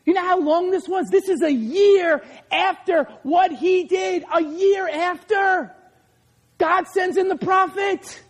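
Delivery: high, emphatic preacher's cry; preaching at full force. Real, not acted. Preacher confronts the congregation, high urgent shouting. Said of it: "preacher at full force".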